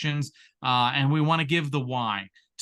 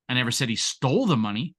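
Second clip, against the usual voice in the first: the lifted with a rising end; the stressed, as if another sum. Shown as a demonstration. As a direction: lean on the word the. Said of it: "Say the same exact thing six different ways".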